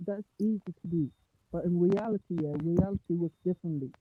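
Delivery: quiet and distant, like from the next room; from another room. Real, not acted. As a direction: voice far from the mic. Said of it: "you're yelling from the other room".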